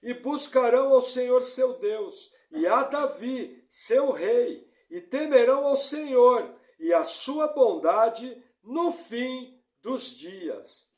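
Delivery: loud, emphatic scripture reading; preaching. Acted. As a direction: proclaim the verse with force. Reads scripture at preaching force. (pregação enfática)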